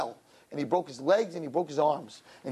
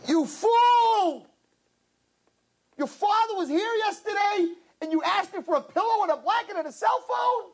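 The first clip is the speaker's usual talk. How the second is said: angry scolding; 12 semitones higher than usual. Acted. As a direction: scold him like a fool. Minister scolds prince.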